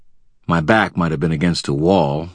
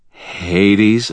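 Hades? higher and louder, rising; stunned question; 5 semitones higher, 5 dB louder than usual. A narrator's reading. Wizard echoing the villain, stunned. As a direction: echo the name in shock. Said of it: "wizard stunned by the name".

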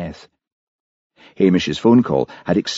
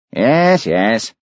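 quick fussy assent, first yes pitched high; 5 semitones higher, 4 dB louder than usual. A narrator's reading. Police boss gives in to the minister, fussy. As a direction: concede fussily, high then dropping. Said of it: "said Daviot fussily".

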